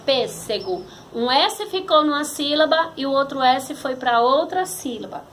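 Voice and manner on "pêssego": "pêssego" in a running sentence, lightly divided; name "pêssego" without drawing it out; palavra citada. Shown as a demonstration. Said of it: "como foi separada a palavra". ("pêssego" dito sem esticar)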